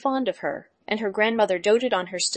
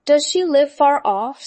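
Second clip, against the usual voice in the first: slow, louder, higher wolf; sly wolf asking slowly; 4 semitones higher, 6 dB louder, slower than usual. A narrator's reading. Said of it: "said the wolf".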